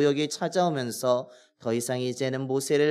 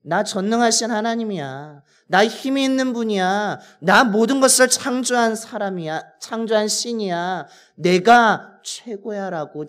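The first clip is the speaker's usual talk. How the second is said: God speaking plainly; 4 semitones higher, 3 dB louder than usual. Retold or imitated. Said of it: "지금 모세에게 말씀하고 있는 것입니다".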